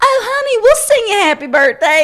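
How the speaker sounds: very high, fast, chirpy, put-on Texas accent. Retelling how she and friends talked to a group of girls all night: Texas accent. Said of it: "let's talk in Texas accents".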